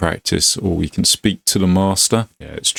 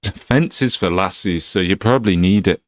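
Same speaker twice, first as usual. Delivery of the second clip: scornful put-on Glaswegian; Scottish accent. Master scorns defending, Scottish accent. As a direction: act a dismissive Scottish trainer. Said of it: "Sorry about the Scottish accent".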